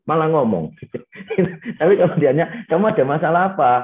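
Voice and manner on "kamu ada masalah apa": mock police interrogation. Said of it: "diinterogasi kayak polisi aja".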